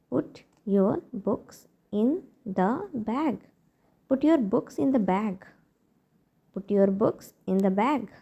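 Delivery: very slow, spaced words; slow model phrase. Shown as a demonstration. Teacher to parents, modelling a phrase very slowly. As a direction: spell it out slowly for learners. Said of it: "अब हम अपने बच्चों से बोलते हैं".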